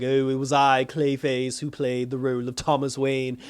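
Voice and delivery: a hint of stagey self-announcement; mock-theatrical proclamation, only slightly put on; lightly grandiose villain. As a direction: lightly voice a proud actor revealing himself. Clayface proudly announcing himself to everybody.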